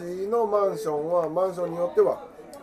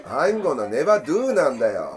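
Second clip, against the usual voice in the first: Lou Oshiba impression; 6 dB louder, slower than usual. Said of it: "俺のルー大柴と一緒ぐらい似てる".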